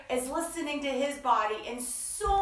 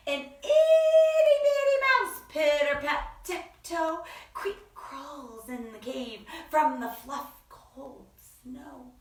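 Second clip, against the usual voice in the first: picture-book story reading; 2 semitones higher, slower than usual. A narrator's reading. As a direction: read to small children, relishing tiny sounds. Reads picture book aloud.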